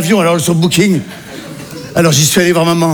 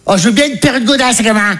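higher mum voice; mother's voice; 4 semitones higher than usual. Retold or imitated. Mother answers her son about a gift, higher sweet voice. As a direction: ask sweetly like an old mum. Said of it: "Elle fait".

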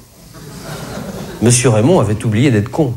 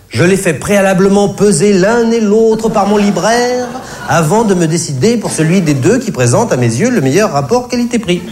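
ordinary delivery

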